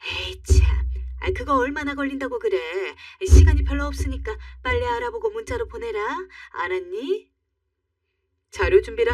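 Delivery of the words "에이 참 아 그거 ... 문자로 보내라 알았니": a hint of a pushy older mother, brisk; bossy mother-in-law. Mother-in-law orders her busy daughter-in-law around, lightly voiced and pushy. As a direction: demand it impatiently like a nagging mother-in-law.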